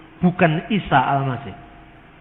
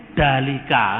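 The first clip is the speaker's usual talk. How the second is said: Balinese accent; 4 semitones lower, slower than usual. Shown as a demonstration. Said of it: "Orang Bali tidak bisa ngomong huruf D".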